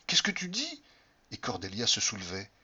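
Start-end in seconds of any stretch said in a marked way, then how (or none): 0.1-0.8 high, startled repeat of dis; shocked disbelief. Acted. Cordelia, incrédulité montante. (stupeur aiguë sur «dis»)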